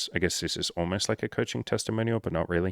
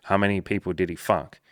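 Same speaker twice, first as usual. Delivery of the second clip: unimpressed shrug. Pretend. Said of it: "You'd be like".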